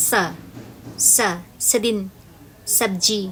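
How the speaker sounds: সেদিন with a palatal sh, like শেদিন; demonstrating the wrong s pronunciation; wrong s sound. Shown as a demonstration. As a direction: say সবজি the regional way with a hissing s. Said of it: "শুনেছিস?".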